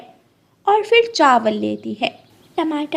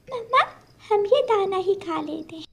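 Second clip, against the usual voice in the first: put-on higher, soft childlike comfort; brave little girl; 8 semitones higher, 4 dB quieter than usual. Daughter comforting crying mother, higher soft voice. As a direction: cheer mama up gently.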